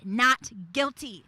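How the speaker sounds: tender "Not guilty."; soft verdict. Retold or imitated. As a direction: let "Not guilty." fall softly. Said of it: "he has said".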